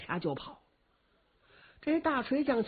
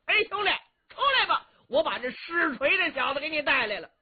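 a mildly raised, fast call to someone indoors; calling inside; 3 semitones higher, faster than usual. Acted. The hammer warrior calls his brother out of the teahouse, mildly raised. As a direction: call out cheerfully into the teahouse, a bit higher. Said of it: "冲着茶馆里头喊".

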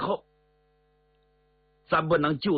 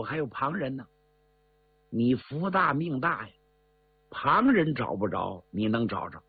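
put-on coaxing old man; 3 semitones lower than usual. 老道哄贾明.

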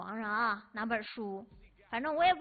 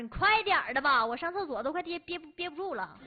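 mock desperate urging; 3 semitones higher, 3 dB louder than usual. Mom desperate for toilet, retold.

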